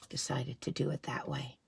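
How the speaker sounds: trailing off into a whisper; secretive whisper. Acted. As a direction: let it drop to a breath. Hushed aside to children.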